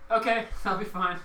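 high-pitched retold politeness with a laugh; awkward placating. Server answers guest refusing to eat, awkward placating.

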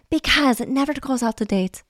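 accidental mock Russian accent. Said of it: "I turned into a Russian".

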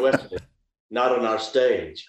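slow, measured mock reprimand; acted reproof. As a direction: lay down the rule slowly.

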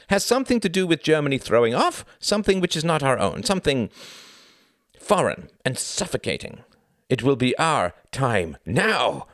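high, swelling zealous proclamation; thick with exultation. A narrator's reading. Klaus proclaims Germany's time to Tom, exultant. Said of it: "His voice was thick with exultation".

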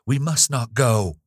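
high, loud frantic cry; half-screamed warning; desperate shout of a terrified young woman. Acted. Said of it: "almost screamed the words she spoke".

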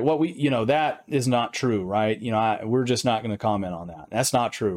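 a light Southern drawl, slowed on that is not true; lazy Southern drawl, denying it. Retold or imitated. Mannings denying the leaked reports, in a mock Southern drawl. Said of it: "In the Southern drawl, right? I can kinda do it here and there".

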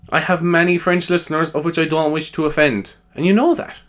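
high-pitched mock French accent; cartoon Frenchman, pitched well up; stereotypical French. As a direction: put on a hammy French accent. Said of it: "he's like stereotypical French".

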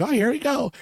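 very high-pitched imitation of an aunt; exclaiming aunt. Aunt reacts as the cart gets shoved, high exclaiming mimicry.

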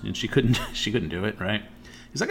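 ordinary talk, nothing marked

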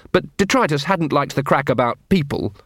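ordinary delivery, nothing marked

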